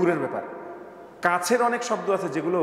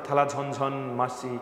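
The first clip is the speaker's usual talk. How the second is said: reciting a rhyme; slower than usual. Shown as a demonstration. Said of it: "একটা কবিতা পড়েছিলাম".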